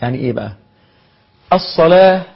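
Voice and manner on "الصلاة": higher, louder call of the word الصلاة. Shown as a demonstration. Teacher calls out الصلاة to his students. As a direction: ring out الصلاة like a call to prayer.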